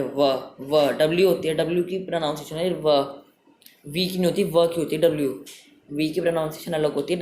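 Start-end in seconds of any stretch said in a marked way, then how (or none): 0.0-0.9 व said as a short, isolated wa sound. Shown as a demonstration. Teacher sounding out the W sound in वन for the class. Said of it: "डब्ल्यू की sound आ रही है".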